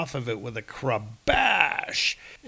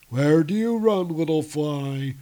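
high, loud booming villain; dark lord; 3 semitones higher, 4 dB louder than usual. Acted. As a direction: gloat over the realms. Giant taunting fleeing Thor.

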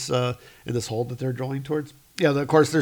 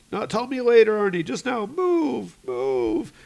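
high, urgent order; Brahm; 10 semitones higher, 4 dB louder than usual. Acted. Rescuer hurrying the crewman to move, high and urgent. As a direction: hurry him out, starting loud. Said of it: "Brahm's like".

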